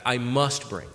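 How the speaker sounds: "must" pressed down with a falling tune; emphatic stress. Shown as a demonstration. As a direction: stress "must" as a binding duty. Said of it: "that's emphatic".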